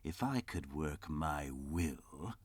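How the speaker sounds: slow, soft seething start; indignant. Acted. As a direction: simmer with indignation. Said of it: "said Scrooge indignantly".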